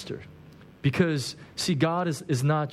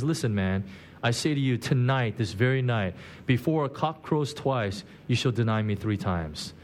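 a lower, grave Jesus voice; Jesus warning; 6 semitones lower than usual. Retold or imitated. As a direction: lean down into a gentle warning. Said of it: "Jesus turns to Peter and says".

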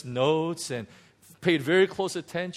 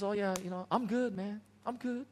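cocky brush-off; 4 semitones higher, faster than usual. Retold or imitated. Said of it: "I walked in and says".

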